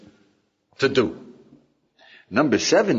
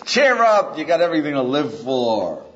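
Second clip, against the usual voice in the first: hearty cheer-up; 4 dB louder than usual. Retold or imitated. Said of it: "and he says".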